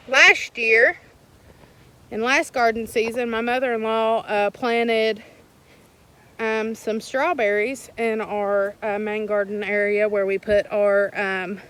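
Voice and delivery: breathless, puffing between words; talking while winded; out of breath. Real, not acted. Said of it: "I'm sorry, I'm out of breath".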